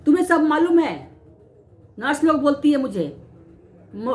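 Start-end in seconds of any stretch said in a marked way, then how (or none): 0.1-1.1 mildly rude mock scolding. Nurse brushing off a patient asking for dialysis, mildly rude. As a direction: imitate a dismissive nurse, lightly. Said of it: "rudely बोलते थे".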